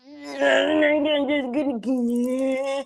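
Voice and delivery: slow words squeezed out between laughs; can barely get it out for laughing; laughing through words. Real, not acted. Laughing while quoting her peeking son.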